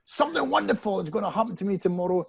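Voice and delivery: mock shouting at the mirror; half-hearted shouted affirmation; retold shout. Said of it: "I'm shouting at myself".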